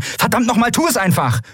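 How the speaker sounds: mildly barked "tu es einfach!" with rising pitch; snapping. Acted. Andriel loses patience with Lien, a mild high snap. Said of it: "blaffte Andriel".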